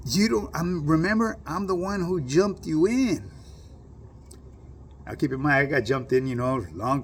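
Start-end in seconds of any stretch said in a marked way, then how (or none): 0.1-3.3 higher, slow voice in another timbre; acted homie. Homie reminding the speaker he jumped him in, higher and slow. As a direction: remind him slowly and pointedly.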